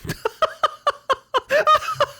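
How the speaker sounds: a burst of high squealing laughter; high-pitched laughing fit. Real, not acted. Streamer cracking up at her own bit, squealing laugh. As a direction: let the laugh shoot up high and long.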